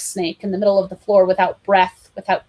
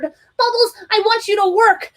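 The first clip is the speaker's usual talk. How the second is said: put-on child voice; 13 semitones higher, 3 dB louder than usual. Child voice in play.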